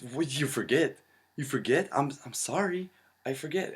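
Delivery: hammed-up mocking of the sister; incredulous mocking. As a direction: parrot her back in mock disbelief. Stan mocks his sister.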